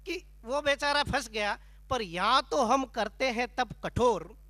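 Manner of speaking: declaimed verse, measured stage delivery; comic poem recitation. Acted. Poet explains his own stern penance to Menaka, declaimed comic verse. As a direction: recite it as mock-heroic poetry.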